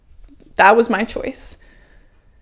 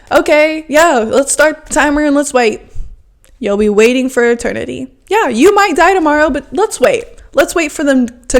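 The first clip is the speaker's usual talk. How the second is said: sarcastic mock patience; 3 semitones higher than usual. Sarcastic mocking of waiting.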